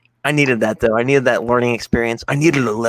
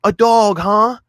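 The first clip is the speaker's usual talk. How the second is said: sarcastic mom; 11 semitones higher, 5 dB louder, slower than usual. Retold or imitated. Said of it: "she was like".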